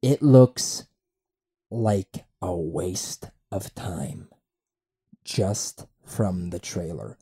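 slow, low, lightly put-on reading; mock friend's post. Podcaster reading his friend's dismissive post, lightly mocking. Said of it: "he put".

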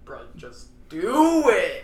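slow, loud bro push; pushy bro voice. Pretend. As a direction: egg them on like a bro. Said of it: "But your stomach's like".

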